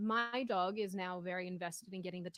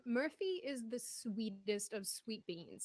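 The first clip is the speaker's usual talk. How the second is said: doting; much slower than usual. Real, not acted. Owner gushing to chat about her sweet dog, slowly and fondly. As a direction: melt over your sweet pup.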